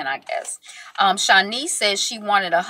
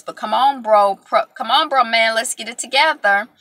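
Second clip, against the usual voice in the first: urging call; 3 semitones higher, 4 dB louder than usual. Real, not acted. Urging husband on from the couch.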